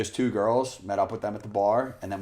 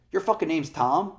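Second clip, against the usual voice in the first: mock shocked outburst; 9 semitones higher, 4 dB louder than usual. Retold boss shocked outburst.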